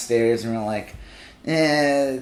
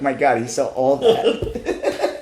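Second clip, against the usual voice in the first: embarrassed laugh; much slower than usual. Retold or imitated.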